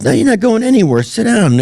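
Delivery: high, hammed-up command to stay put; mock stern order. Actor ordering the comic to sit back down, mock stern. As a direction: boss him back into his seat, playfully. Michael Douglas ordering him, retold.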